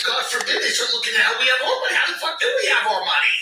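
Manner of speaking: fast, high worried rich guy; lightly voiced nervous billionaire; mock panicked rich. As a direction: rattle it off in fake panic.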